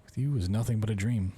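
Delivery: love letter read out, lifted a little. Acted. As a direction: read it aloud as a personal letter. Reads a love letter aloud.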